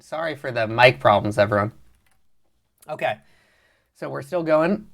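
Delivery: a little vocal fry; slightly rough, fry in the voice. Real, not acted. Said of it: "A little vocal fry".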